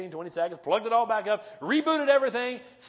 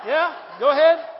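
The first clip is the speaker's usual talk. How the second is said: urging shout; 6 semitones higher, 9 dB louder than usual. Real, not acted. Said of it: "your wife should be saying amen".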